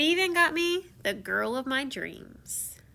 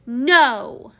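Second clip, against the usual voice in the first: loud troll-like bark; roaring no; 9 dB louder than usual. Retold or imitated. Prince in troll mode roaring at the old woman. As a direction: snap it out like an angry troll. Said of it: "I roared".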